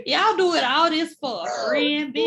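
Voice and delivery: high, slow, drawn-out mockery; high incredulous drawl; mock disbelief. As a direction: stretch it out in loud disbelief. Mocking the lonely robbers.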